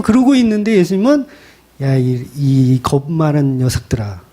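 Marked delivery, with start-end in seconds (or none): 1.8-4.2 slow, lower teasing rebuke of cowards; a fatherly half-joking telling-off; mock scolding. Jesus chiding the fearful disciples, lightly scolding. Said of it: "예수님은 호통을 치신다고요".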